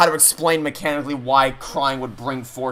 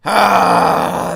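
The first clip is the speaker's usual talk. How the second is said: long, loud exasperated "ah"; exasperated groan; 5 semitones higher, 7 dB louder than usual. Real, not acted. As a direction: let out a loud, drawn-out groan. Exasperated by the game's story.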